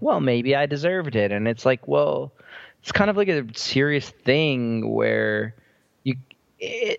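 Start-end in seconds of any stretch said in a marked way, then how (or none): 0.0-1.3 breezy, light, playful, toying, acted-out delivery. Speaker retells how a show character says this, imitating a playful tone. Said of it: "she says it in this like playful tone".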